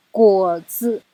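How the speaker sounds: 果 third tone, 子 light and quick; neutral tone demo. Shown as a demonstration. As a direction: say 果子 clearly, 子 short. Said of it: "三声跟轻声的组合".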